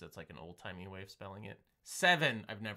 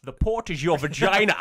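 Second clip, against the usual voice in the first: loud joking; 6 semitones higher, 16 dB louder than usual. Pretend. Loud crude joke.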